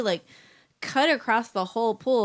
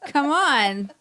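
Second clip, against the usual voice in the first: louder, rallying her on; loud cheering; 5 semitones higher, 4 dB louder than usual. Real, not acted. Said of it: "Stop thinking you're loud".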